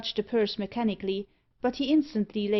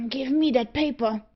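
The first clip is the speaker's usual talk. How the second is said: louder, sharp demand; crying out; 4 semitones higher, 5 dB louder than usual. A narrator's reading. Auriol grabbing for the paper from Ginger, loud demand. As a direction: snap the order out. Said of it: "cried Auriol".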